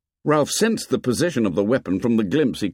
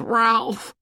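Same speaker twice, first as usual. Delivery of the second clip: high, drawn wailing plea; frightened boy's high-pitched cry; panicked wail; 13 semitones higher, slower than usual. A narrator's reading. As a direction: wail it, begging not to be abandoned. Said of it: "Piggy wailed".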